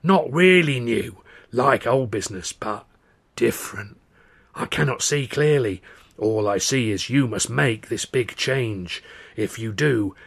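slow rasping fortune teller; old woman's rasping voice. Retold or imitated. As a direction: rasp it out like an old seer. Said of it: "the old woman's rasping voice".

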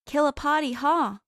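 a touch of chirpy party-goer; lightly voiced party girl. A narrator's reading. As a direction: call it out over the party noise. Party girl greets Cass over noise.

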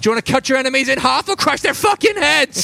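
high, loud, bubbly quiz voice; quirky NPC voice. Acted. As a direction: fire off the questions like a game host. NPC continues quiz questions.

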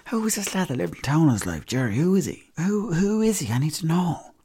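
high, desperate pleading; frantic questioning. Retold or imitated. Narrator begging the mechanic for the name, high and urgent. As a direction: beg to know who he is.

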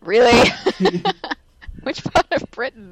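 high, loud, laughing incredulous question; mocking disbelief. Viewer mocking the actor's fake accent, laughing. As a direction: scoff through laughter at the claim. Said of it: "and I was like".

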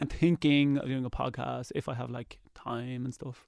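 slow, fading, bored drone; lightly mimicking a bored mumble; half-hearted bored drawl; mock monotone. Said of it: "But you're like".

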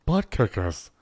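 light mock Boston accent. Host capping the Elliot impression, light Boston accent. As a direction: say it with a hint of Boston. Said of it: "Boston accent".

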